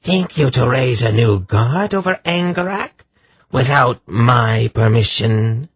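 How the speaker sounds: high, rasping challenge; harsh rasp. A narrator's reading. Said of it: "rasped in a harsh voice".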